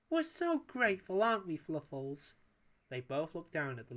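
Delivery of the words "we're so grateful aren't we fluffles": high, sweet lady's voice; Paella's voice. A narrator's reading. Paella gushes gratitude to her poodle Fluffles. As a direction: gush it at the poodle. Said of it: "Paella speaking".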